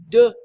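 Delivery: "deux" with no sound for the final x; silent X. Shown as a demonstration. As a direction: say "deux" like "duh", ending on the vowel. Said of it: "but we don't say it".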